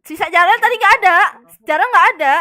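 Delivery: loud insistent arguing; heated argument. Real, not acted. Player arguing in meeting that Ajarel was missing, loud. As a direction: push the point hard over the others.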